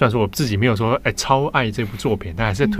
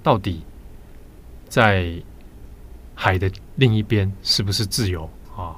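solemn, with long pauses; serious. Real, not acted. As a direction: pose the question gravely, pausing between phrases. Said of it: "好严肃".

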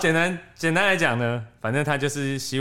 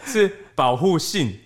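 slow, deliberate; 4 semitones higher, slower than usual. Shown as a demonstration. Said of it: "你逗点要逗好".

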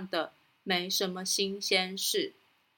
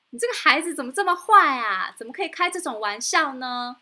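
louder, higher angry scold; 3 semitones higher, 4 dB louder than usual. Acted. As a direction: scold the naughty boy. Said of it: "生气地说". (生气地责骂)

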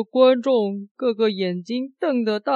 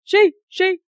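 startled who; 6 semitones higher than usual. Acted. Assistant startled by pinch.

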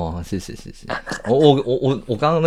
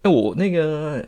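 usual speaking voice

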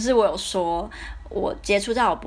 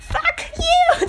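much higher, louder pretend "fuck you"; mock fuck you; 6 dB louder than usual. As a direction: fling it out like a childish revenge. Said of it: "然后就说".

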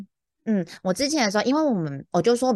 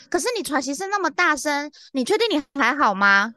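higher, insistent worried questioning; retold nervous concern; 6 semitones higher than usual. Agent doubting a panting caller is fine, anxious. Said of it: "然后我就很紧张".

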